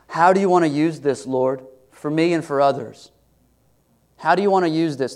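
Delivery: anguished prayer. Acted. Voicing a struggling prayer to God.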